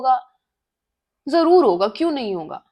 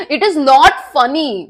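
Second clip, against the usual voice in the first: insisting; 5 dB louder, much slower than usual. Real, not acted. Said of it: "अभी तो मुझे हंसी आ रही है".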